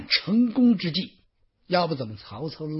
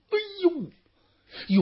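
dismayed cry; 14 semitones higher than usual. Acted. Yuan Shao hemmed in on all sides.

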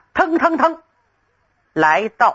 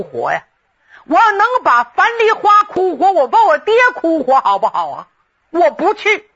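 a touch of indignant protest, rising to a raised peak; losing his temper; 3 semitones higher than usual. Acted. After the prince leaves, Xue Dingshan protests with mild indignation. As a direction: push back at the prince, half-hearted anger building. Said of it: "薛丁山这来脾气了".

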